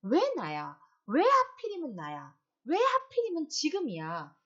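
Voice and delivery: loud, rising, raging patient; angry protest. Acted. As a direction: shout at fate: why me. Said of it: "어떻게?".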